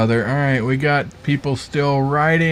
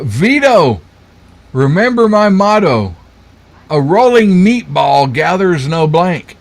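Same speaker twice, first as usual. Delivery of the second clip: Godfather; 2 semitones higher than usual. Acted. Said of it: "The Godfather said".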